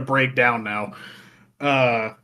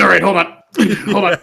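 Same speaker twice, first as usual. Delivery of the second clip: laughing, a bit louder; 5 semitones higher, 6 dB louder, faster than usual. Real, not acted. Still scooting over in the game, laughing. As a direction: giggle through it as you scoot.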